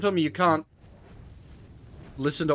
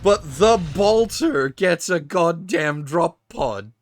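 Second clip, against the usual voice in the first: indignant; 4 semitones higher, 5 dB louder, slower than usual. Real, not acted. Indignant rant about unfair loadouts.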